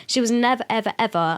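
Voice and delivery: slips into a northern accent on ever, ever; lightly voiced northern twang. Real, not acted. Friend notices her sudden northern accent. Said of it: "How did you just do a northern accent?".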